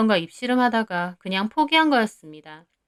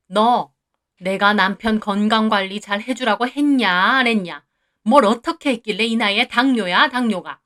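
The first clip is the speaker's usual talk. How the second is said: loud, accusing scold; mother-in-law berating her son's wife; 3 dB louder than usual. Acted. Mother-in-law blaming the wife for her son's diabetes, loud scold. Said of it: "한바탕 화를 내셨어요".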